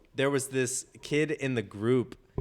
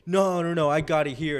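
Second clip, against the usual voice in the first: higher-pitched mock protest; retold insistent refusal; 4 semitones higher than usual. Drunk kid refusing the detour to the row, mock insistent. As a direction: imitate someone waving off advice.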